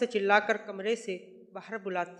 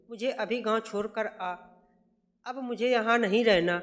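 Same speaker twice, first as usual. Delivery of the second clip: louder at the end, stubborn; mother insisting on leaving now; stubborn insistence; 3 dB louder than usual. Acted. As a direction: refuse to budge.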